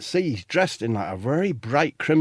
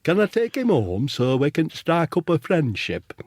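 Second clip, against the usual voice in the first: put-on higher, homely comedian's accent; higher mock northern accent, eager; Phil Jones; 4 semitones higher than usual. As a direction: plead in a put-on club comic's voice. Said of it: "I'll say that Phil Jones talks like that then".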